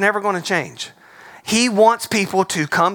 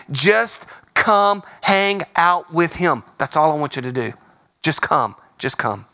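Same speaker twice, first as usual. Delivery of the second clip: gentle plea. Acted. Pleading invitation as Philip.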